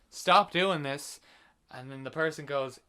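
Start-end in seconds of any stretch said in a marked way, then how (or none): 0.1-1.2 "Stop doing this" said very slowly and louder; mocking the trope line. Shown as a demonstration. Mocking the film's repeated trope, slow and louder. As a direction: drag out "Stop doing this" like a cliché. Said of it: "and they go".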